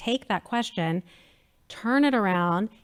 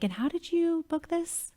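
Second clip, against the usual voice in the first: high, slow, amazed question; a touch of amazed disbelief; 9 semitones higher, 5 dB quieter than usual. Retold or imitated. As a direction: marvel at how she pulled it off. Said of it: "I'm like".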